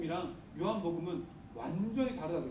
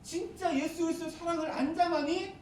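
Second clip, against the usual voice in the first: John exhorting; 4 semitones higher than usual. Retold or imitated. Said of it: "라고 이렇게 계속해서 얘기하는 사람이 요한이에요".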